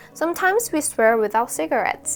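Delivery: general American English accent, plain delivery. Demonstrating the speaker's own English accent: American accent. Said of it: "이거 아메리칸 액센트거든요".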